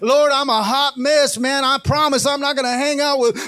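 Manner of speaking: loud, high, pleading cry to the Lord; preaching shout of desperate prayer; fervent prayer. Acted. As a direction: cry out to God for rescue. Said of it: "call on the King of Kings and say".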